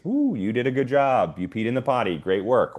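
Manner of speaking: put-on bright, high praise for a child; potty training praise. Shown as a demonstration. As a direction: cheer them on for peeing. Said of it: "some children are motivated by praise".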